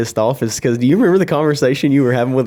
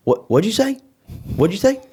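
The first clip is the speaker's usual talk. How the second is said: high mock disbelief, voice jumping way up; mock incredulous; 10 semitones higher than usual. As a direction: play D catching the tow guy's words, high and incredulous. Imitating D on the phone.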